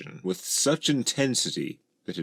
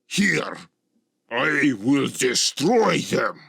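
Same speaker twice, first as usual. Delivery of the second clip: high, loud, drawn-out dragon rage; furious threat; 8 semitones higher, 5 dB louder, slower than usual. A narrator's reading. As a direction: roar a vow of destruction. Gorlix threatens the intruders.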